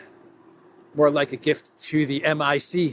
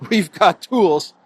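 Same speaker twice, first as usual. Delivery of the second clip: slow, louder, drawn-out threat; mock menacing Costa; 4 semitones higher, 6 dB louder, much slower than usual. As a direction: draw out the threat like a mock villain. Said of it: "said Costa".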